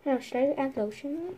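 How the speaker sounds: soft unvoiced whisper. Real, not acted. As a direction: breathe the words without voice. Whispering while filming.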